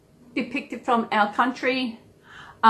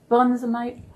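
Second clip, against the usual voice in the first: Aussie slang. Shown as a demonstration. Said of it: "Aussie words".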